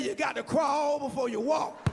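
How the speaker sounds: slow, high shouted preacher line. Retold or imitated. Pastor roaring at P.L. on the floor, slow high shout. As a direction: bellow it like a pastor throwing him down.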